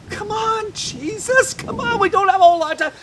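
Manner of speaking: high, fast and pressing; no time to lose; impatient urging. Acted. Impatient father thinking.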